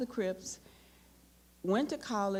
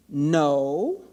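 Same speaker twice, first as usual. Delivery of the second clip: curt flat no; 5 semitones lower, 8 dB louder than usual. Retold or imitated. Curt one-word reply to insult.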